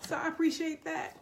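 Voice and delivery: apologizing while welling up; near tears. Real, not acted. Apologizing to viewers, voice close to crying. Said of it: "I'm not gonna cry".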